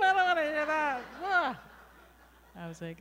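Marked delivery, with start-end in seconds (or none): 0.0-1.0 high, loud mock disgust; loud squeamish protest; grossed out. Recoiling from a sex dream. 1.2-1.6 high loud yuck noise; loud mock-disgusted blah. Disgust noise after sex dream.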